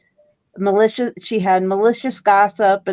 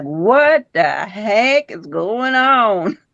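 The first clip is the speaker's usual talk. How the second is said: baffled reaction; much slower than usual. Retold or imitated. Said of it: "I was like".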